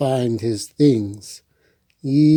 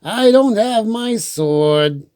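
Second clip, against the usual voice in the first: sad Franklin; 8 semitones higher, slower than usual. Acted. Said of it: "said Franklin".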